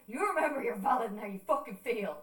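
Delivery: loud, insistent mock lecture; retold forceful reassurance; stern aunt imitation. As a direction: drive it home like a scolding aunt.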